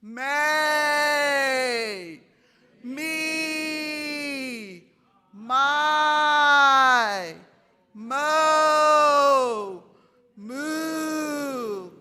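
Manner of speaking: loud, high, held vowels; ratcheted up. Shown as a demonstration. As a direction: push each syllable out with effort. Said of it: "Let's ratchet it up".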